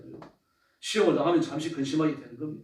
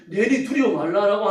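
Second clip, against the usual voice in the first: comforting; 4 semitones higher, 6 dB louder, slower than usual. Acted. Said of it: "그들 다독거리는 말씀이지만요".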